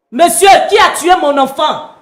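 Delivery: shouted demand through grief; anguished shout. Acted. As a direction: cry out for the killer's name. Grieving mother demands the killer.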